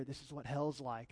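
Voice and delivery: soft, low imitation of a whisper; hushed and low, as if into an ear; retold whisper. Mom leaning over to her kid in a dark cave, retold whisper. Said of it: "whispers in my ear".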